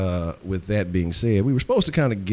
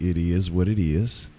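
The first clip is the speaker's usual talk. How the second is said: ordinary delivery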